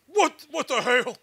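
slow, loud, stretched "What, what the hell?" rising at the end; drawn-out what the hell. Shown as a demonstration. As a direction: shout it slow like a puzzled Texan. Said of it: "give us an audio command of you saying, 'What the hell,' like that".

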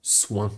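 "soin" set apart as one syllable; "soin" as s, w glide, nasal e; syllable demo. Shown as a demonstration. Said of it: "A więc tworzy nam to".

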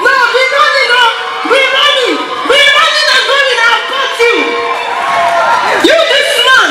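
excited shouting while fleeing; shouted. Acted. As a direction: yell it like you're running off. Shouted chase in skit.

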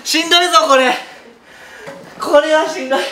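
loud, strained and exhausted; worn out groan. Real, not acted. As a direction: groan it out, totally spent. (疲れ切った声)

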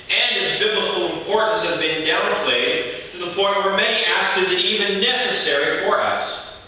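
projected, steady sermon delivery; preaching. Real, not acted. Preacher teaches the congregation about repentance, preaching. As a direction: preach it firmly to the whole room.

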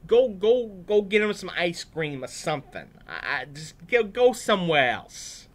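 high, loud shooing; hammed-up bossy disciples; scolding disciples. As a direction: chase the kids off, exasperated. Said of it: "that's how they sounded back then".

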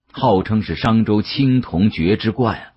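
ordinary delivery, nothing marked

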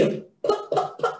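letter name "P", then soft voiceless puffs "p, p"; phonics letter sound. Shown as a demonstration. Teaching how pig starts, phonics sounding-out of "p". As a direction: pop the bare "p" sound without voice. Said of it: "starts with the letter P".

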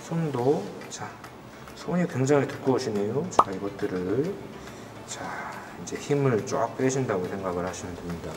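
lightly voiced hypnotist guiding. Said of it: "최면술사 닥터 크레용입니다".

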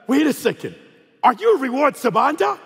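hammed-up surprise at spotting someone famous; mock-astonished recognition. Friend pretends to spot a celebrity on the plane, mock astonishment. Acts out friend's loud public prank.

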